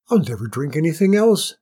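loud, emphatic delight; delighted queen exclaiming; elated. A narrator's reading. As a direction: vow it with happy conviction.

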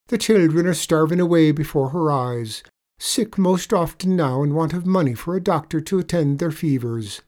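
leprechaun telling a pitiful tale. A narrator's reading. Leprechaun tells sad tale.

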